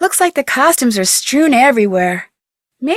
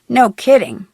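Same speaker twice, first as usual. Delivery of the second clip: laughing. Real, not acted. Laugh heard on line.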